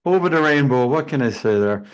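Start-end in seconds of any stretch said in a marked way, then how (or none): 0.0-0.9 put-on a touch of Irish accent, lightly higher; playful stab at an Irish accent. Panelist adding one more Irish-accent line for fun. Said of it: "that's my best effort in Irish accent".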